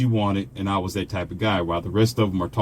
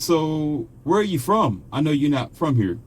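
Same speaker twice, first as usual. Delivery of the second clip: imitated woman; 6 semitones higher than usual. Woman sounds out a traveling stranger, lightly imitated higher voice. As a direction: raise your pitch to quote her question. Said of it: "she said".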